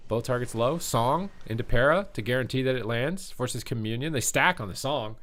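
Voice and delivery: quick esports caster call; live play-by-play. Acted. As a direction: call the fight as it happens.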